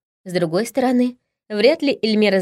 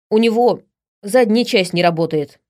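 loud, annoyed barbarian; angry orc; 2 semitones higher, 3 dB louder than usual. Acted. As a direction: grumble it out loud. Orc angrily continues. (громко и раздражённо, как орк)

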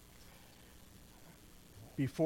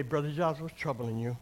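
softer, lower, gentle concern; caring approach; 3 semitones lower, 5 dB quieter than usual. Shown as a demonstration. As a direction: ask him gently, with care. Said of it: "How we approach somebody is very important in a conflict".

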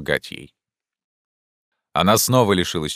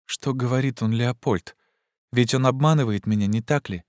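faint plea; 7 semitones higher than usual. A narrator's reading. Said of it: "прошептала она с трудом".

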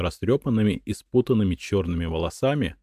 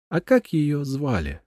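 gentle; 8 semitones higher than usual. A narrator's reading. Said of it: "так же ласково спросил Джереми".

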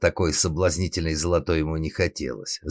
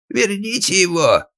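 high, loud strained call; hoarse cry; 7 dB louder than usual. Acted. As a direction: cry out from behind the fence. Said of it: "хрипел отец из-за забора".

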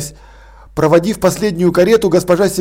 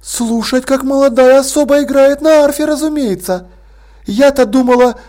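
high, mock-astonished lady voice; mock surprise; 5 semitones higher than usual. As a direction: feign amazement teasingly. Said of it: "изобразила крайнее удивление".

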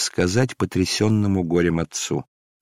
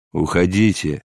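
angry outburst; 3 semitones lower, slower than usual. Acted. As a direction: drive them away in rage. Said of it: "взорвался он гневом". (гневный крик старика)

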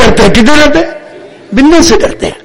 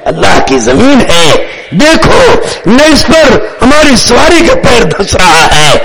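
bold declaration. Retold or imitated. Acts out companion's defiant declaration.

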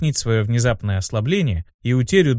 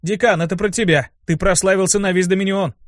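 higher, lightly hushed admiration; awed whisper; 6 semitones higher than usual. Acted. Imp telling the dean of the fame, mildly awed. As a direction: marvel at the commander's fame. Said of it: "он восхищённо прошептал".

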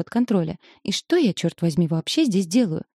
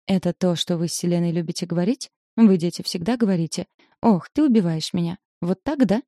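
plain reading voice

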